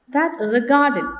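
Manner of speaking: plain statement falling on "garden". Shown as a demonstration. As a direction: bring the pitch down through "garden". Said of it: "falling tone".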